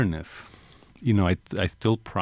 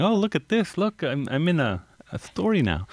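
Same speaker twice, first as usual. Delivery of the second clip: excited grandmother; 10 semitones higher than usual. Retold or imitated. Quoting proud grandmother.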